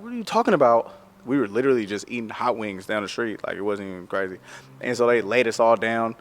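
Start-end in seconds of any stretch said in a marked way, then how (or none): 0.0-0.9 retold disbelief. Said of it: "We like".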